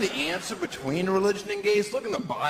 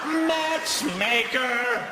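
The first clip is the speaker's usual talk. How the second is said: excited; 8 semitones higher, much slower than usual. Real, not acted. Comic shout after laugh.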